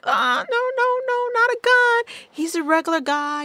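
very high, pleading half-sob; panicked crying plea. Retold or imitated. She begs the boyfriend not to shoot her ex, high panicked plea. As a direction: beg him not to, near tears, mock-panicked. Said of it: "I just start crying".

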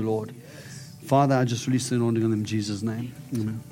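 steady prayer voice over them. Acted. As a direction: pray the blessing out with conviction. Prays over the couple.

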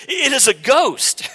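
high, loud, slow spooked cry; frightened cry. Acted. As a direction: cry out at the ghost on the water. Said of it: "one of the apostles looks and he says".

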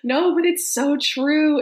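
cracking up, voice jumping high; giggling at the MLM joke; laughing. Real, not acted. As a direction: laugh through the words, can't stop.

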